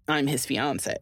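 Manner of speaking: fiancé ending in "say". Retold or imitated. Quoting a partner who uses the male word, fiancé ending in "say". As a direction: say fiancé as fee-on-SAY, imitating his usage. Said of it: "he just still says".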